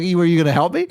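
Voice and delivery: laughing, loud disbelief. Retold or imitated. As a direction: laugh it out at the guard. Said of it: "I'm like".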